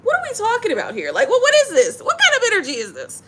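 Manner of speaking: laughing disbelief. Real, not acted. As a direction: crack up at the cards. Cards confuse her, laughing.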